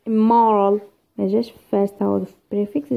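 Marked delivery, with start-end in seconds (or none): 0.1-0.8 "Immoral" with a loud second syllable; stress on second syllable. Shown as a demonstration. Teacher showing students where stress falls, stress on second syllable of "Immoral". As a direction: lean hard on the MOR in "Immoral". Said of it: "جا في second".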